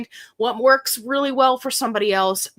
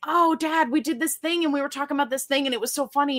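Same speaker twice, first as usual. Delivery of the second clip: gushing to dad; 5 semitones higher, faster than usual. Retold or imitated. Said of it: "I'm like".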